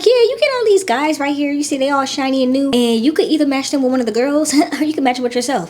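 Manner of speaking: playful mock producer voice; mock producer pitch. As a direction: sell it like a cheeky game show host. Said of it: "they like".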